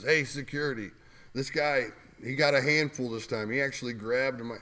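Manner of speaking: mild mock call for help; calling for security. The speaker calling security over.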